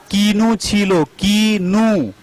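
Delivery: कीनू drawn out with a long ee; teacher models कीनू; clear kinu. Shown as a demonstration. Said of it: "काफ ये जेर की".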